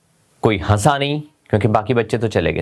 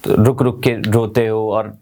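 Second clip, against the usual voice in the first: sobbing demo; 2 semitones lower, slower than usual. Shown as a demonstration. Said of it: "ये sobbing sound होती है".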